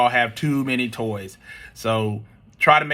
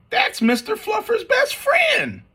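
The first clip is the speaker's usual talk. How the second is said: put-on indignant child shout. Spencer shouting at mom to save the toy, high indignant cry. Child protests mom's choice.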